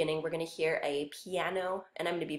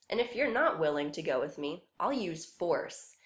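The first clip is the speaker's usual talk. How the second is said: a touch of menace, slowing on I'll use force; losing patience with the boy, lightly; impatient Elf King. Acted. Elf King threatening the boy, mild anger. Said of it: "he loses his patience".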